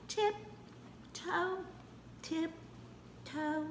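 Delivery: high, hushed, creeping; sneaky tiptoe. Pretend. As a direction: creep it in a hush. Sneaking before the boo.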